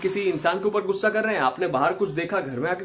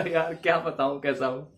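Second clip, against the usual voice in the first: laughing reply; 2 semitones lower than usual. Shown as a demonstration. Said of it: "तो हंस के ही बताया मैंने".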